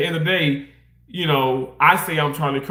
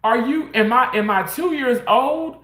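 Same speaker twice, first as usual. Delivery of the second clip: irritated; 8 semitones higher than usual. Retold or imitated. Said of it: "it just irritated me because I'm like".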